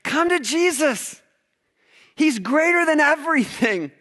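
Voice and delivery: soaring preacher's cry; fervent exhortation. Retold or imitated. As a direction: lift the whole room with the invitation. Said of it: "our writers say".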